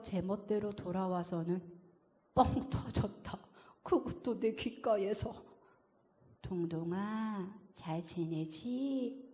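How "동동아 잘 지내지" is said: slow, soft grandmother's greeting; grandma's voice. Acted. Grandma greeting her grandson Dongdong, slow and soft. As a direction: call gently like a far-away grandma. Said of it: "할머니 목소리다".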